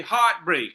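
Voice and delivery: "heartbreak" with neither half weakened; two equal stresses. Shown as a demonstration. Teacher proving the same level, both syllables of "heartbreak" stressed. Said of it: "the same level of pronunciation".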